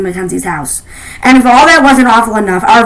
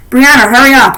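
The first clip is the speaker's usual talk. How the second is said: shouted; 3 semitones higher, 4 dB louder than usual. A narrator's reading. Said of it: "I shouted through the door".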